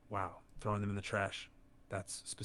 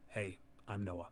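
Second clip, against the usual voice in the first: softer, slowed greeting; talking quiet; 9 dB quieter, slower than usual. Real, not acted. AI voice greeting the streamer, quiet and slow. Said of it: "Why are you talking so quiet?".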